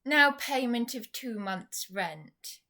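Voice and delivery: slow, mocking landlady voice; sarcastic landlady voice. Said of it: "read it in the same voice that she would use".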